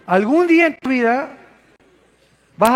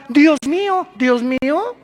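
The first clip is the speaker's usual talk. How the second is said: mock panicked cry; 5 semitones higher, 4 dB louder, slower than usual. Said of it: "ateos que gritaban".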